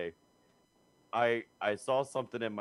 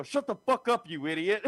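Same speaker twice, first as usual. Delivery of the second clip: higher, startled snap; retelling the odd outburst to friends; mock angry outburst; 9 semitones higher than usual. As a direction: blurt it like an involuntary insult. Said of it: "what the fuck was that?".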